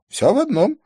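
high echoed reply. Acted. Man answers back with same words.

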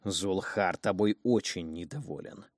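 slow, rasping and pushed low; hoarse low voice. Acted. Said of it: "пытаясь заставить свой мальчишеский голос звучать ниже".

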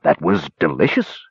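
feigned contented delight; mildly hammed-up satisfaction; happy sigh. A narrator's reading. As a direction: sigh it sweetly to flatter the cook. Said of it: "sighed happily".

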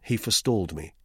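plain reading voice

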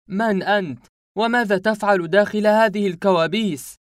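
high, loud furious demand; angry shout. Acted. Boy corners the masked man and shouts angrily. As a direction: yell it at the masked man in anger. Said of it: "صرخت فيه بغضب".

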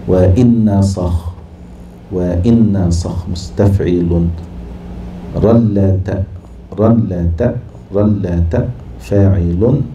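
each syllable drawn out slowly; slow scansion. Shown as a demonstration. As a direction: scan the foot slowly, syllable by syllable. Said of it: "teacher scanning Khansa verse". (تقطيع بطيء للتفعيلة)

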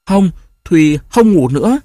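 giọng trẻ con cao, to, vừa khóc vừa cãi; dỗi, nhất quyết không ngủ; bé gái khóc dỗi. Acted. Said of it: "Nghe tiếng con khóc". (bé gái khóc cãi bố, giọng cao và to)

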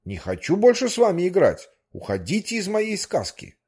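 offended whale. Acted. The whale refuses to play with them, huffy. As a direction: snap back like an insulted fairy-tale whale.

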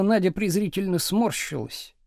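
ordinary delivery, nothing marked

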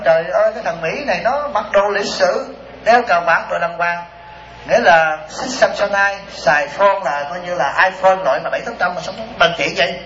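slow, drawn-out disbelief, lightly acted; mock astonishment. Woman sizing up the well-dressed American, slow mock astonishment. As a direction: imitate a woman marvelling at a stranger. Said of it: "bà nói".

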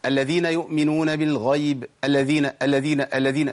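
الذين with the doubled lam cut short; rushed lam. Shown as a demonstration. Teacher demonstrates the mistake, rushed single lam. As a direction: run over the lam of الذين without holding it. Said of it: "الخطأ إن أنا أجري باللام".

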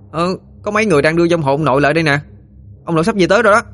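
high, fast excited calling. Acted. Boy calling back excitedly to Quý. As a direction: tell it eagerly, rushing.

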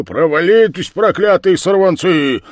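high, loud furious cursing; angry shout. Acted. The village head beats off the lads, shouting angrily. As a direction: curse the brats off. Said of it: "кричал голова".

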